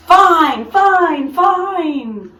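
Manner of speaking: high, loud joyful shouting; cheering shout. A narrator's reading. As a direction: cheer it like a crowd. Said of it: "teachers shouting".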